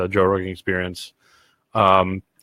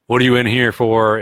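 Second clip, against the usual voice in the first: inmate asking; 3 semitones higher, 5 dB louder than usual. Retold or imitated. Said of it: "one of the inmates says".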